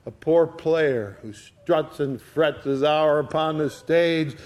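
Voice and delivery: Shakespeare recital. Acted. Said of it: "He went on".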